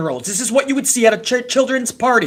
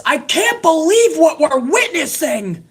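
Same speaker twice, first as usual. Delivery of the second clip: slow, higher sarcastic echo of the call; sarcastic mock; 6 semitones higher than usual. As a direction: drag out the line to ridicule it. Mocking the announcer again.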